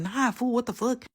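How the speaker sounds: high, mock-dismissive scoff; scoffing refusal. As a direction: brush him off with a high scoff. Refusing friend's suggestion, retold.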